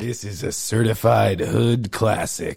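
slow low meme announcer; hood classic meme voice. Retold or imitated. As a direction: deliver it like the viral hype clip. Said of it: "You're like the guy that's like".

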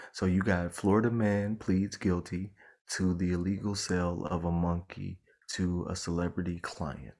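soft, hushed headline read, like public radio; hushed news read. Real, not acted. Reading a Florida Man headline to her cohost, hushed. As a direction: lean in and read the headline softly. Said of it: "I don't know why you're whispering".

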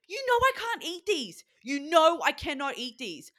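very high, loud indignant rant; going psycho. Retold or imitated. Dieter scolding partner over almonds, going psycho. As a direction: wail it in re-enacted diet panic, hammering the words. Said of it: "you were going so psycho".

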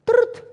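high, sharp mock ring; imitated phone ring, high; phone ring sound. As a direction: chirp it like a phone.

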